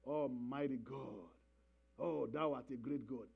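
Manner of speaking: soft, low, half-hearted prayer; lazy mock prayer. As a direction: pray offhandedly, legs crossed. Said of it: "and say".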